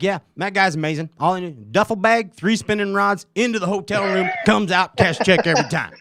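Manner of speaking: high, excited bad impression of a fishing pro; horrible Swindle impersonation. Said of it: "that's, like, a horrible Swindle impersonation".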